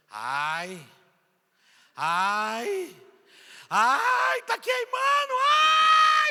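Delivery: very slow, very high, loud, drawn-out pained wailing. Recounting his sister falling while being prayed for, imitating sister screaming in pain. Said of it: "E começou a gritar".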